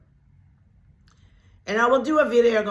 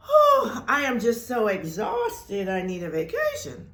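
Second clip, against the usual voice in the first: mock exhausted sigh. Acting an exhausted complaint.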